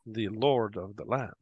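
lightly voiced, measured innkeeper character; probing barkeep. Barkeep sounds out visitors about the Lord, probing. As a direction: feel out the stranger's loyalties, carefully.

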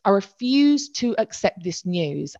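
"refuse to accept" drawn out slowly, word by word; emphatic refusal. Retold or imitated. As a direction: dig in on REFUSE, measured and slow. Repeats the refusal more deliberately.

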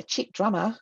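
lightly attempted Australian twang; a hint of badly faked Australian; bad Australian accent. Drummer quoting what church people called her, in a bad Australian accent. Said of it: "terrible accent".

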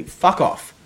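playful furious yell; loud mock outburst. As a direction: hurl it at the imagined kid. Outburst at imagined young men.

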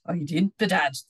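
a firm, emphatic "I didn't, bedad"; emphatic denial. Acted. Little man answering a child's accusation with "I didn't, bedad", emphatic. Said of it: "the little man replied emphatically".

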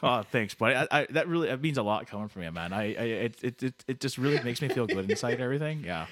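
lightly voiced grateful Canadian buddy; Canada Dave, touched. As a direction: stammer out heartfelt folksy thanks. Canada Dave thanks him.

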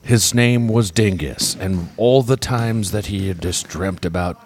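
mock scripture. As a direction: intone it like a parody bible verse.

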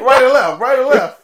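put-on high, loud Hispanic accent through laughter; mock Hispanic accent. Mocking older Luffy giving bathroom directions, laughing Hispanic accent. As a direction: ham up a Hispanic accent while cracking up. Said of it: "a real hardcore Hispanic accent".

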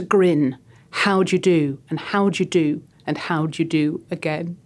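slow, spooky nursery-rhyme reading; reading a poem aloud. Acted. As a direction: read it like a creepy children's rhyme. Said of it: "Would you mind reading it for me".

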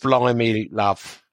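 mock East End Cockney; West Ham accent. Shown as a demonstration. Co-host hamming it up for a listener, West Ham Cockney. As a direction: toss it off as stock Cockney patter. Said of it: "Do your West Ham accent".

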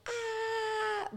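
high, open demo scream held back in volume; a short high scream sample, not full force; primal scream. Shown as a demonstration. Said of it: "you just, like".

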